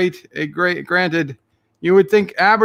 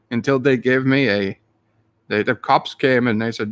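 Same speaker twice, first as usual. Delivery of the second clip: hammed-up Irish storyteller; mock Irish accent; 3 semitones lower than usual. Streamer telling chat about kissing the stone, mock Irish accent. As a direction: spin a tall tale in a put-on brogue. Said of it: "full of more blarney than usual".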